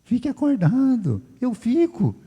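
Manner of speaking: lightly hammed-up calm doctor; mock pastor command. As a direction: deliver it like a deadpan prescription. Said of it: "Falou isso pra mim".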